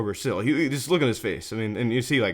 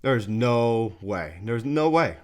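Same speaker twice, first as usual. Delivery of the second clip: drawn-out, mildly acted disbelief; total disbelief; much slower than usual. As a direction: stretch it out like a stunned batter. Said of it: "he's just in total disbelief".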